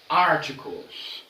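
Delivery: Articles drawn out slowly, stress on AR; slow model pronunciation. Shown as a demonstration. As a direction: spell out each syllable of Articles for students. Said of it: "O segundo tópico da aula de hoje são os artigos".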